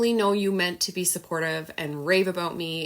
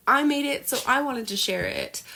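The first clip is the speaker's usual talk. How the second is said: put-on childish tantrum voice; 7 semitones higher than usual. Imagining her reaction as a child's tantrum, high whiny mock voice. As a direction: voice the inner child stamping its foot. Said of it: "almost like a childish temper tantrum".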